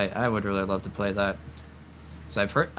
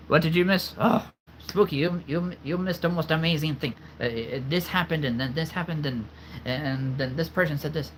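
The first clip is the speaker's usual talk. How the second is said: excited; 5 semitones higher than usual. Acted. Excitedly recapping for a late viewer.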